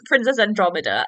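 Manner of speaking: Andromeda said as an-DROM-uh-duh; stressed short "drom" in Andromeda; correct Andromeda. Shown as a demonstration. Podcaster apologising for her slip, Andromeda corrected to "DROM". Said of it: "I said it wrong the entire time".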